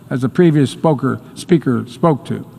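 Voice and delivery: teleprompter stumble. Real, not acted. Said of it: "I was way off".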